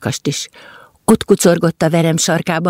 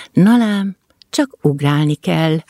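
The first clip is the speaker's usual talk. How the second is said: pleased. Acted. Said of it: "örült az egér".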